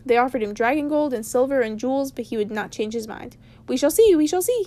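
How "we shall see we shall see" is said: 1 playful Gandalf. Acted. Gandalf refuses, teasing.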